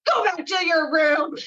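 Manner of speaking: high, strained mock shout; retold yell. Imitating girl yelling at the dog, high mock shout. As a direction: yell it like a child ordering the dog out. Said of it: "she yells at Augie".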